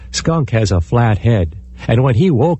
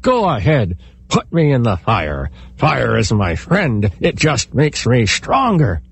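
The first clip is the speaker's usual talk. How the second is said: through clenched jaws. Acted. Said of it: "he said through his clenched jaws".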